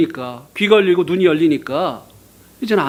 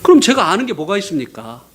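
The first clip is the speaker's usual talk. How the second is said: normal talking voice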